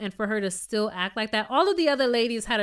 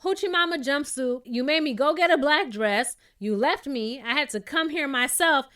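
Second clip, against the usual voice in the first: voicing Monyetta; 5 semitones higher than usual. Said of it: "And if I was Monyetta".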